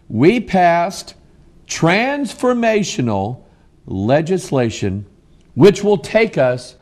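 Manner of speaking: drawn-out, swooping mock grandeur, the last words pitched high; mocking Nancy Pelosi quote. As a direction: parody her lofty words, stretching each one. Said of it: "Here's what Nancy Pelosi said".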